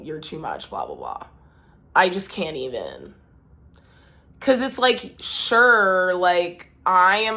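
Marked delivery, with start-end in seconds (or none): 0.0-1.3 mocking quote. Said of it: "it causes them to say".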